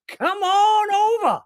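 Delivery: high, slow hammed-up Texas oilman voice; mock T Boone Pickens Texan twang; Texan drawl. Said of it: "why I'm making everybody sound like, uh, T Boone Pickens".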